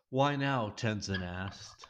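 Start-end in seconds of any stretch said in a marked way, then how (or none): 0.1-0.7 higher-pitched, understated angry question; extremely upset. A narrator's reading. Tenzin confronting the couple, upset but contained. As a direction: ask it higher, with contained anger. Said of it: "sounding extremely upset".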